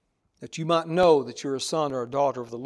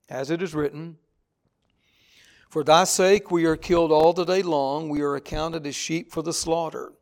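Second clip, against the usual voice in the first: solemn, declaiming Bible reading, louder on the big lines; scripture reading; 4 dB louder than usual. Acted. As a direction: proclaim the verses to the congregation. Reads Romans passage aloud.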